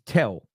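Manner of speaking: "Tell" with a dark, w-like l; Southern pronunciation. Shown as a demonstration. Host explaining his nickname, "Tell" in his Southern accent. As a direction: let the l of "Tell" soften towards w. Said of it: "we say Tell".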